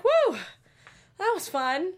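imitating a giddy cheer; a carefree woo, hammed up; mock cheer. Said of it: "they were just like".

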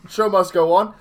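talking through a nosebleed; nosebleed, slightly blocked voice. Real, not acted. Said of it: "it's because I have a nosebleed".

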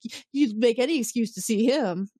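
imitated hostile accusation. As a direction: throw the accusation at her, playfully overdone. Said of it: "like, really hostile to her".

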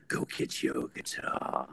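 low, slow, breathy mumble; low slurred rock-star impression; drunk rock-star mumble. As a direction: drawl it like a drunk rock star. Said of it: "I was like".

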